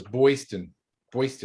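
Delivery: put-on "Boyston" with an "oy" in the first syllable; Boston as Boyston. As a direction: say "Boyston", turning the vowel into "oy". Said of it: "I thought it was Boyston".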